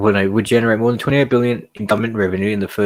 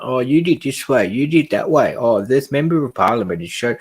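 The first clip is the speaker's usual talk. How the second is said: put-on childish squabbling; 4 semitones higher than usual. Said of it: "spit at each other like children".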